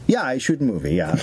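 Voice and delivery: put-on broken English in a lightly done foreign accent; a light mock foreign accent. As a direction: play a foreign director with a hint of an accent. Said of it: "I don't know what the accent is now".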